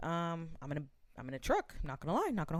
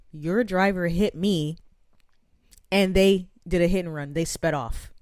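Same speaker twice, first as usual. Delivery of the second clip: complaining quote; 9 dB louder than usual. Retold or imitated. Lady reports to manager.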